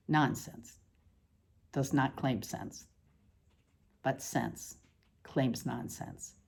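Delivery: softly, like an echo; quiet echo. Acted. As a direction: drop to a hush on the repeat. Repeated line as a soft echo.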